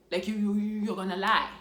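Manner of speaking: rising outburst of denial; angry denial. Retold or imitated. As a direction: push back hard, refusing to believe it. Denying the news, shouting.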